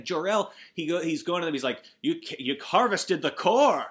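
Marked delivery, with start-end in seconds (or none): 2.0-3.8 higher, louder retold rant at the council; hammed-up scolding shout, building up; mock yelling father. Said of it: "yelling at the Council of Krypton".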